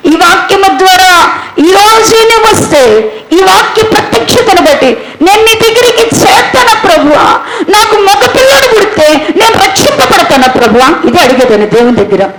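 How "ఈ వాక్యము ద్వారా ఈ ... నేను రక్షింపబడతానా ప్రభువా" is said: pleading prayer. Retold or imitated. Retold pleading prayer, crying.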